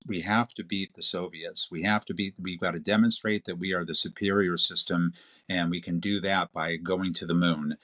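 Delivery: put-on Kennedy's Boston accent, lightly done; quoting Kennedy in a light Boston accent. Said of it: "I like your, your Boston accent there that came in".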